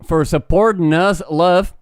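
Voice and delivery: put-on Texas accent; Texan accent. Host thanks patrons for support in a put-on Texan accent. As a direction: lay on a mock Texan accent. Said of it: "in Texas with that accent".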